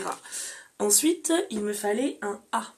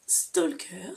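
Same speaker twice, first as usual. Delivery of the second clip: whisper; 3 semitones higher than usual. Real, not acted. Showing her reading list, she whispers the title. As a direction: whisper the title, breathy and unvoiced.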